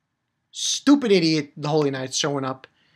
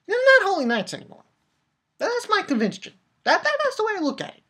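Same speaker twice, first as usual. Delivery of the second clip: higher, heated rant; 14 semitones higher, faster than usual. Real, not acted. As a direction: declare it with rising outrage. Ranting against villains.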